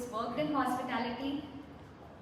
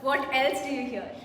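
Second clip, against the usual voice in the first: soothing voice; 3 dB quieter than usual. Acted. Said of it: "do I have a soothing voice?".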